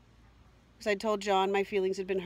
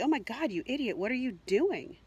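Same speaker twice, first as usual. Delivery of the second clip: higher, scolding herself; self-scolding; 4 semitones higher than usual. Retold or imitated. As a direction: berate yourself inwardly. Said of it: "it was immediately".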